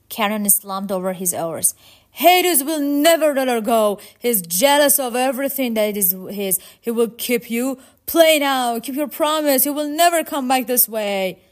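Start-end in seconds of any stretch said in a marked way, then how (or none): 2.1-11.4 high, loud, insistent shouting; shouted warning. Acted. Charon begs departing Orpheus to play, shouting. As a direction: call out urgently across a distance.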